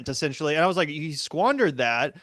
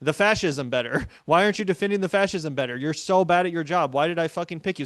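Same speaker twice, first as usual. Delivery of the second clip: mock angry rant; 2 semitones higher than usual. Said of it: "if I was Trump, I'd be pissed. I'd be like".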